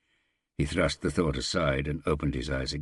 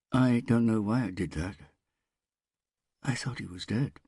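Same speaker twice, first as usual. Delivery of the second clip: robotic whisper; 8 semitones higher than usual. A narrator's reading. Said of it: "Smith whispered in a metallic, robotic voice".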